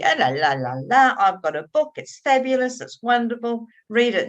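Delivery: mock-cheeky sales pitch. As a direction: tease the friend with a cheeky brag. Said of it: "I was being cheeky".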